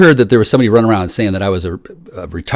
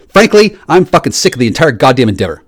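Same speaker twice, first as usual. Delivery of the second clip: loud frankly; 3 semitones higher, 4 dB louder than usual. Real, not acted. Ranting, fed up.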